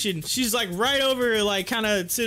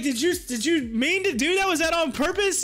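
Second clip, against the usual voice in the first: accusing retold question; 6 semitones higher than usual.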